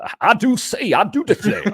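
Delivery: high, hammed-up Southern belle accent; teasing a co-host with a Southern accent; mock Southern accent. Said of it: "Southern accent".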